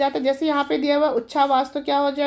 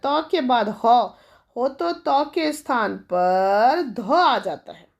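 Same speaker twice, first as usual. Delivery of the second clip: slowly dictating the rule to students; बहुत धीरे धीरे नियम पढ़ना; slow spelled-out reading; 3 semitones lower, much slower than usual. Shown as a demonstration. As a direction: read the rule out very slowly, word by word. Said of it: "देखो कि क्या बोल रहा है".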